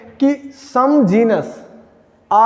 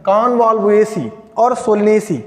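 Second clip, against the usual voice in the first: slow dictation; much slower than usual. Shown as a demonstration. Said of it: "ये दो family है बेटा".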